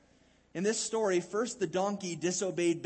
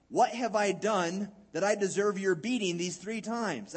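donkey voice; 3 semitones higher, 5 dB louder than usual. Acted. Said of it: "the donkey turns to Balaam and says".

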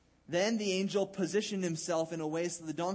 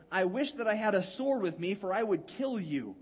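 shouting; 4 semitones higher, 4 dB louder than usual. Acted. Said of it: "And Balaam shouted".

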